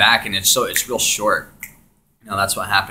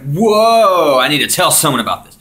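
much higher and louder, fast rush; excited outburst; 7 semitones higher, 11 dB louder than usual. Retold or imitated. Coming out of the trip, dying to tell someone, excited. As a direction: burst with amazement and urgency.

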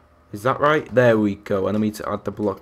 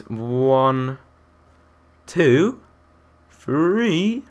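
Mister Tumble; 2 semitones higher, much slower than usual. Pretend. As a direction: count slowly, swooping up like for little children. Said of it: "I sound like Mister Tumble then".

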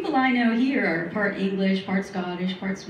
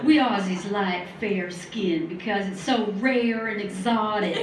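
put-on Australian accent; 3 semitones lower than usual. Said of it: "My Australian accent always turns into a southern drawl".

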